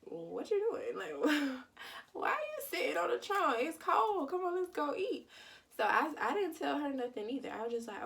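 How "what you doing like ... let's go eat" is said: much higher, lively friend calling out with a laugh; friend's voice. Retold or imitated. Mimicking her friend calling from the door, high and chirpy. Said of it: "she like".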